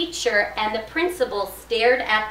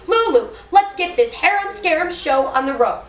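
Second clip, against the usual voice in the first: high, animated call to action; rally Lulu to get going; excited rallying; 7 semitones higher, 4 dB louder than usual. A narrator's reading. Story character urges Lulu to start, excited.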